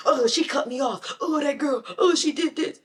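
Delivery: mock road rage. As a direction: fume at the driver who cut you off, building up. Fuming driver on the way to work.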